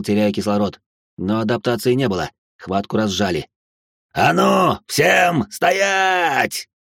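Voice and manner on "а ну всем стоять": bellowed command. A narrator's reading. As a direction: roar at everyone to freeze. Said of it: "заорал Фицджеральд".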